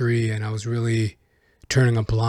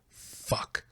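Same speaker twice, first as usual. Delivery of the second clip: a breathless whispered fuck; whispered curse; 14 dB quieter than usual. Retold or imitated. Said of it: "and I was like".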